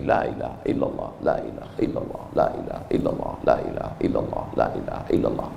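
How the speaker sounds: breathy whispered repetition of la ilaha illallah; whispered dhikr. Shown as a demonstration. Preacher whispering dhikr to show the congregation. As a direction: whisper the tasbih softly, over and over. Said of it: "ambil tasbih".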